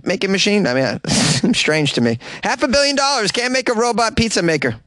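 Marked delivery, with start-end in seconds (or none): 2.4-4.8 incredulous. Real, not acted. Complaining about the sum again.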